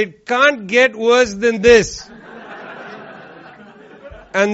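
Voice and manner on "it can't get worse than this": slow, mock-weary sigh of a line; a hint of tired disbelief; mock resigned. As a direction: say it like you've given up. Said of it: "and then you say".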